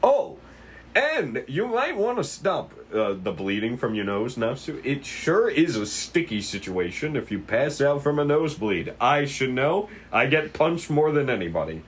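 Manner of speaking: high, chirpy helpful detective; lightly voiced cheerful detective. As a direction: offer it with friendly concern. Kiri offers tissues.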